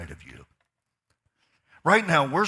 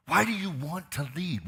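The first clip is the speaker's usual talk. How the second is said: 'why' lifted higher with a falling end; higher pressing question; 6 semitones higher than usual. Shown as a demonstration. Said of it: "Can I ask you a question?".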